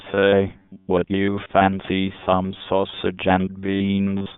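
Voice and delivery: lightly put-on British accent; a hint of a chummy British gent. Imagined British man greets his mate, lightly British accent. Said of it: "talking to each other with British accent".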